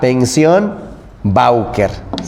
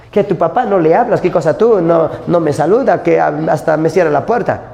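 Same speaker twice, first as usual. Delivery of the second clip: mock complaining girlfriend; 2 semitones higher than usual. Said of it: "Le reclamas".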